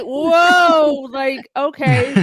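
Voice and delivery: high, loud woah easing into a drawn-out okay; astonished reaction. Retold or imitated. Fan retelling the reaction to a film ending, astonished. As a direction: act out being taken aback. Acting out own startled reaction.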